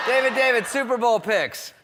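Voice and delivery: high, very loud press shout; hounding paparazzi. Retold or imitated. TMZ guys calling to crash victim, pestering shout. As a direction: yell the name, then stretch the question. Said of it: "T M Z guys going".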